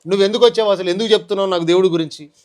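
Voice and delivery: retelling how he shouted the pastor off; retold angry retort. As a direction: snap back at the pastor as you did then. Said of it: "అని గట్టిగా మాట్లాడా".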